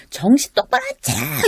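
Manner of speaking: high-pitched, drawn-out boss's rebuke; mock scolding yell. Boss scolding a staff member for repeated mistakes, mock yell. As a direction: act out snapping at staff, without full volume. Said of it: "이렇게 막 소리 지-, 치는 거".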